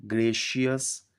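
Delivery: "ग्रेशियस" said carefully, with a long GRAY and then shius; pronunciation demo. Shown as a demonstration. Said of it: "इसको इस तरह pronounce करते हैं". ("ग्रेशियस" को ग्रे-शियस, साफ़ उच्चारण में बोलें)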